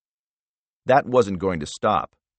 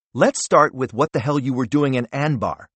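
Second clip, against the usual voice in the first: hostile interrogation; 5 semitones higher, 3 dB louder than usual. Acted. Senator interrogates director.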